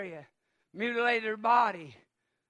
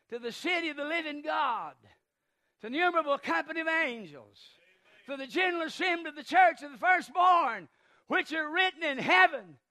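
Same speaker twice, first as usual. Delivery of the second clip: raised, mounting scripture cadence; preaching recitation; 5 semitones higher, 4 dB louder than usual. Real, not acted. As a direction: proclaim it phrase by phrase.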